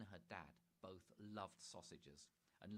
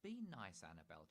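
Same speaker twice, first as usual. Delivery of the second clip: chiding Dad. Acted. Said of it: "chided Dad".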